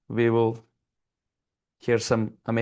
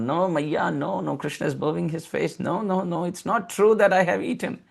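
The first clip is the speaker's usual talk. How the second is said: put-on child pleading; 3 semitones higher than usual. Child Krishna denying to mother.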